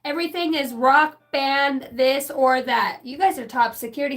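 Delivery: high, loud rock teacher rant; hammed-up School of Rock teacher; excited teacher. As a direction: ham it up like a wild rock teacher. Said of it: "He's like".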